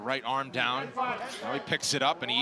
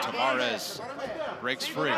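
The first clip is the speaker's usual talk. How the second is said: much higher, rising call; excited; 10 semitones higher, slower than usual. Real, not acted. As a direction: call the escape with a lift. Excited play-by-play escape.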